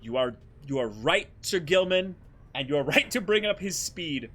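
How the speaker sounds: high, loud, grandly earnest knight; wholesome knight voice. Acted. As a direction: proclaim it like a noble knight. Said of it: "somehow wholesome Spandam voice".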